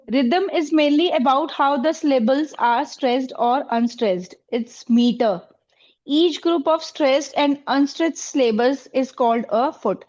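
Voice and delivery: very slow, spelled-out dictation read; slow lesson dictation in English. Acted. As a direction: read it out slowly so the class can write it down.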